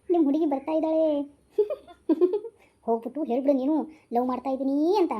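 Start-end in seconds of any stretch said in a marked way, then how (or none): 1.6-5.1 laughing tease. Acted. Teasing friend laughs while urging.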